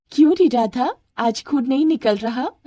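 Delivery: acted schoolgirl bully; taunting. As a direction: tease her with a rising jab. Anju taunts Radha.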